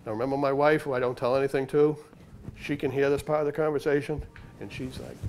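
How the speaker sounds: ordinary talk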